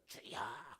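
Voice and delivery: strained, drawn-out mock cry; mimicked prayer cry. Congregation crying to the Lord together, mimicked prayer cry. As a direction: imitate a crowd crying out. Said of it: "파고를 치고 있는 게".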